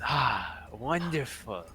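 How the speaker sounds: slow, savoured goblin greeting; lightly put-on fond old acquaintance; lightly voiced goblin. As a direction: draw out the goblin's delight.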